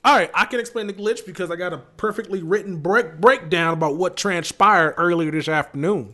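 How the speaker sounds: cartoon character voice; goofy cartoonish stalling voice. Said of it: "What is that voice?".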